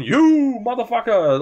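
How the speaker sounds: Hulk Hogan. Retold or imitated. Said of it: "like I'm Hulk Hogan saying".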